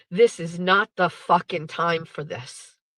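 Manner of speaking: mock stone-cold, unmoved delivery. Retelling her husband's response when a crying woman hugs their son, imitating a stone-cold reply. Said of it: "fucking stone cold".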